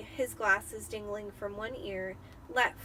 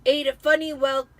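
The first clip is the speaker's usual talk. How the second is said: gruff Uncle Vernon; 4 semitones higher, 12 dB louder than usual. Acted. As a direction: report the news heavily. Vernon continues.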